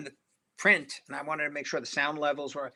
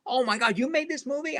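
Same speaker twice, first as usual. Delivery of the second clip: mock surprise; 9 semitones higher than usual. Pryor learns he's the director.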